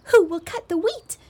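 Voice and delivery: a hen briskly summoning helpers; calling briskly. A narrator's reading. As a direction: call out briskly to the others. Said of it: "calling briskly".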